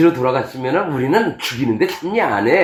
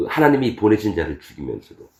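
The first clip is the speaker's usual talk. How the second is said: ordinary talk, nothing marked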